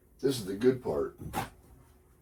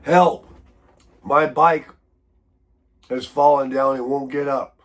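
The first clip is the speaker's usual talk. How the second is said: mock emergency-alert plea; 4 dB louder than usual. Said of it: "reached through that wire".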